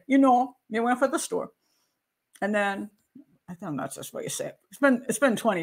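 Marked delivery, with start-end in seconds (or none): 0.1-1.5 storyteller's Jamaican lilt, a little higher; lightly faked Jamaican storytelling; Jamaican accent. Shown as a demonstration. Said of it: "But a Jamaican will say".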